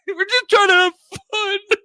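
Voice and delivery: high, loud, laughing plea; playful childish protest while laughing; laughing kid voice. Retold or imitated. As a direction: giggle it like a kid being scolded. Laughing kids' reply.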